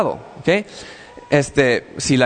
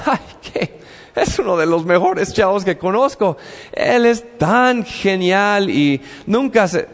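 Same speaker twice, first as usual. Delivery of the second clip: a breathy, higher, hammed-up swoon over a favourite; mock gushing God; 3 semitones higher than usual. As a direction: playfully mimic God raving about him. God voiced gushing over him. (Dios imitado en broma, embelesado)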